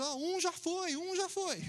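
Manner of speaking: high, loud frantic yell; second fisherman yelling that one boy is gone; alarmed shout. Retold or imitated. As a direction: shout it across the water in panic. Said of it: "o outro já gritou assim".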